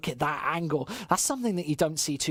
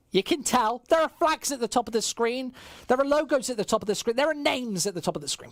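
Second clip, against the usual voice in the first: higher, insistent listing of the obvious; mock exasperation; 8 semitones higher than usual. Real, not acted. Caster telling viewers the obvious about the screen, mock exasperation. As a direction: hammer each repeated point, easing off at the end.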